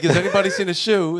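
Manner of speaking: lightly British Russell Brand voice; a hint of a loose British rocker; Russell Brand impression. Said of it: "supposed to be like Russell Brand".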